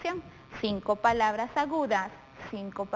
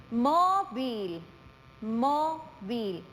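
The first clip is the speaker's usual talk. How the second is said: "Móvil" drawn out, weight on MÓ; stress on first syllable; much slower than usual. Shown as a demonstration. Teacher showing pupils where the voice is strongest, stressed first syllable in "Móvil". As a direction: lean on the MÓ of "Móvil", then let it fall. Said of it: "dónde damos mayor intensidad en la voz".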